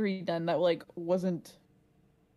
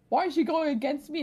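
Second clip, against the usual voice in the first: higher-pitched mock indignation; pissed off mom; 6 semitones higher, 4 dB louder than usual. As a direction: imitate a mother's aggrieved complaint. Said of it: "pissed off".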